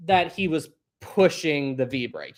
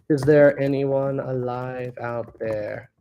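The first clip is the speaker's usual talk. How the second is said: toy echo microphone; much slower than usual. Pretend. Mock echo call after reconnecting.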